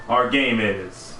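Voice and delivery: serious narrator voice. Shown as a demonstration. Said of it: "I'm about to have a serious narrator voice".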